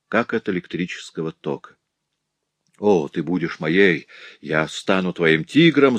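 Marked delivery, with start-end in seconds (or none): none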